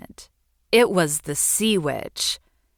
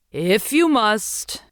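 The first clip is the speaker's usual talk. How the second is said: slow, grudging witch voice; reluctant sea witch; 4 semitones higher, 4 dB louder, slower than usual. Acted. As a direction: give in with a weary sigh in the voice.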